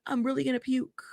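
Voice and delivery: hushed, breathy imitation of a man about to be sick; mock queasy panic. Mocking Alex Jones crying on video, hushed and queasy. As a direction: whisper it like you're fighting back nausea. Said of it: "He's like".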